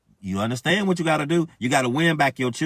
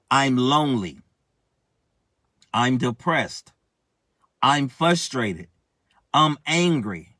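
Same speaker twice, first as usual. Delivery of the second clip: slow self-pity; 2 semitones lower, slower than usual. Pretend. Voicing a self-pitying believer.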